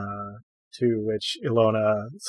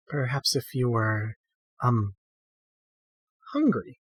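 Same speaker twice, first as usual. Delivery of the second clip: hesitant, rising on hungry; nervously offering, voice jumps up; flustered; 4 dB quieter than usual. A narrator's reading.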